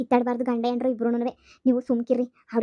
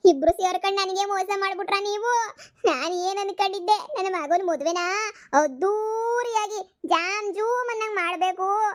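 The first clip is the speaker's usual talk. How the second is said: staged mother's complaint pitched up; mock lament; 5 semitones higher than usual. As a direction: whine over the ruined dream wedding.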